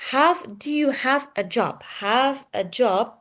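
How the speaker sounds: "have" and "job" hit firmly and spaced out; stress on HAVE, JOB. Shown as a demonstration. Teacher showing students sentence stress, "have" and "job" stressed. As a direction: punch "have" and "job", slowing on the repeat. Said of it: "Sentence stress".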